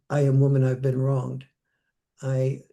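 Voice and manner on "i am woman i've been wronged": mock grievance, leaning on am; a hint of wounded protest; aggrieved slogan. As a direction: quote it as a louder aggrieved complaint.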